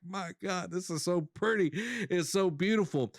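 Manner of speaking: high-pitched, as if welling up; retold tearful gushing. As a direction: re-enact being moved to tears by something lovely. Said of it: "I was bawling my eyes out".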